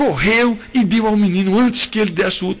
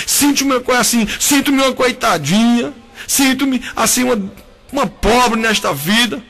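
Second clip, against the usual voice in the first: tearful lament; 3 semitones higher than usual. Retold or imitated. Hagar crying out to God in the desert, pleading tearfully. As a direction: pour out Hagar's despair to God, half-sobbing. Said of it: "Imagine ela chorando e dizendo".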